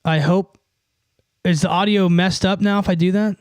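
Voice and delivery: loud. Real, not acted. Testing changed audio setup.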